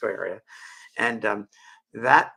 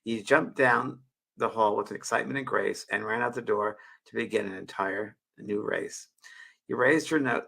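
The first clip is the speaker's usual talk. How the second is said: poem reading. Acted. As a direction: read gently as a heartfelt poem. Reads her poem aloud.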